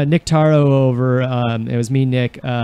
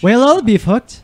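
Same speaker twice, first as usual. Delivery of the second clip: higher, accidental Irish lilt; Irish accent; 5 semitones higher than usual. Shown as a demonstration. Friend trying the trick proverb, Irish accent. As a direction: run it together into an Irish accent. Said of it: "You're part Irish".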